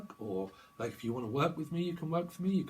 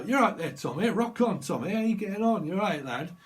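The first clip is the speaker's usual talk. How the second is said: put-on higher, louder cheery northern accent; northern comic catchphrase; 6 semitones higher, 7 dB louder than usual. Tarot reader imitating Scousers, loud cheery northern accent. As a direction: belt it like a Scouse comedian. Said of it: "they normally talk a bit like that".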